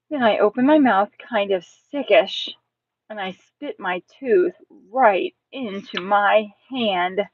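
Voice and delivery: expressive first-person storytelling; suspenseful story narration. Acted. Tense story narration by child narrator.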